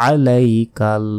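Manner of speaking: আলাইকাল slow, opening with a throaty ain; ain sound. Shown as a demonstration. Teacher showing ain in আলাইকাল. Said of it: "বলতে হবে".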